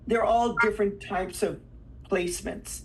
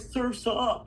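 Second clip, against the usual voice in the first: slow California surfer drawl; surfer dude; 2 semitones higher than usual. Acted. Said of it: "like surfer".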